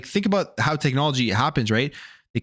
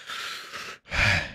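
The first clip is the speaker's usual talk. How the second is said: long breathy recovery sigh; recovering sigh; 5 semitones lower, 6 dB quieter than usual. Real, not acted. Streamer catching breath after coughing fit, soft sigh. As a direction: let out a slow exhale after choking. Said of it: "Deep breath".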